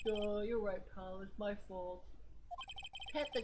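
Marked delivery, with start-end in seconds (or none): 0.1-2.0 a mild sulky duh, then a hushed admission; Gumshoe voice. Pretend. Player voicing the detective agreeing, mildly dopey. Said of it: "Gumshoe voice".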